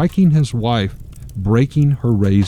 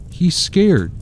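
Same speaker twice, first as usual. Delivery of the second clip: put-on crying child; 9 semitones higher than usual. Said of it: "Michael, crying".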